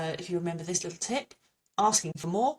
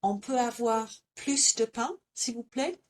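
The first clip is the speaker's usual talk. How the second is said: a lightly voiced lady asking for bread; polite customer; 5 semitones higher than usual. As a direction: ask the waiter nicely, plus with the S. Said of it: "The lady's asking".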